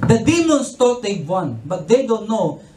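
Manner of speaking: slow preaching. Acted.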